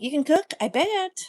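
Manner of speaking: teasing disbelief. Retold or imitated. Teasing reply to husband's boast.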